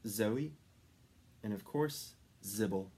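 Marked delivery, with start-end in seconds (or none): none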